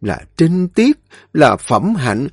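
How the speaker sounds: a mother's reproach boiling over; scolding mother. A narrator's reading. Mother scolding Mai for taking her friend's husband, high and loud. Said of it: "bình tĩnh trách móc".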